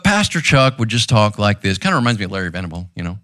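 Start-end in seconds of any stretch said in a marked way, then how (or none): 0.0-1.8 lightly imitated resonant pastor voice; a hint of a resonant, gentle preacher; Pastor Chuck. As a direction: talk gently with a touch of resonance. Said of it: "Pastor Chuck had this resonant voice".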